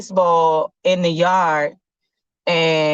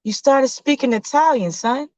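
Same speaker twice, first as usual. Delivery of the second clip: mom voice; 7 semitones higher than usual. Acted. Mother answering son.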